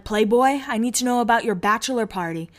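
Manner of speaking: lightly imitated surfer bro; a hint of surfer bro; Brody. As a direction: put on a mild surfer-dude voice. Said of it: "He's such a surfer".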